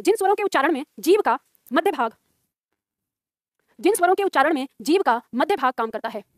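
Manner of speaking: measured dictation with pauses between phrases. Acted. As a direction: dictate it phrase by phrase for students writing. Teacher dictates a definition. (श्रुतलेख बोलते हुए, रुक-रुककर)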